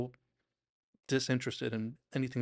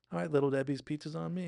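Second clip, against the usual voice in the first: higher, announcing to a crowd; calling out; 4 semitones higher than usual. Retold or imitated. Deborah treating the Little Debbies, calling out. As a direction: lightly imitate a cheery call-out.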